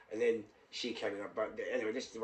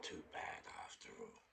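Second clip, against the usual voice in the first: whispering; 16 dB quieter than usual. Retold or imitated. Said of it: "Well, you know what?".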